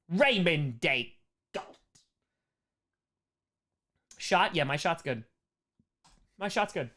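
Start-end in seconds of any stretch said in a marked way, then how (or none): 0.1-1.8 slow, lightly put-on character voice; Raymond Day Galt. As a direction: stretch the name out in a mild character voice. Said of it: "one of my favorite voices to do".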